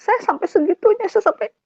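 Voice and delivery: high, upset retelling; choking up while telling it, pitched high; real distress rising in the voice; tearful. Real, not acted. Breaking down while retelling her despair.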